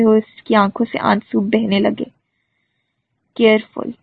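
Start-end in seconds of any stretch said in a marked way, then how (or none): 3.4-3.9 stern warning. A narrator's reading. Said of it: "سختی سے اسے روکا".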